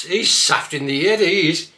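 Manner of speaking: Black Country accent, saft. Shown as a demonstration. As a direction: say it broad, head as 'ed. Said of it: "look at this one".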